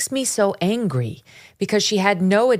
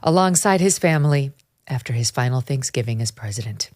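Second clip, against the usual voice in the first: put-on mid-Atlantic accent; 2 semitones lower than usual. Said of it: "I'm going into Hollywood nineteen fifties accent now".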